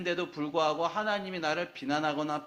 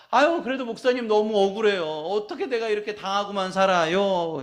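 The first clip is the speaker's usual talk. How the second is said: aggrieved complaint; 4 semitones higher, 6 dB louder than usual. Acted. Congregant complaining to pastor.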